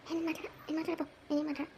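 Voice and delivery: soft, hushed refusing to talk; hushed refusal. Acted. Son refusing phone, whispering. (గుసగుసగా నిరాకరణ)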